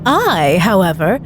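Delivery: lightly voiced magician, savouring each word; showman magician. Magician teasing the volunteer, slow showman patter.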